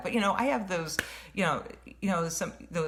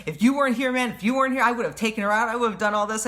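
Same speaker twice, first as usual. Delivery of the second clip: mocking angry woman; 5 semitones higher, 4 dB louder, much faster than usual. Woman threatening her man loudly.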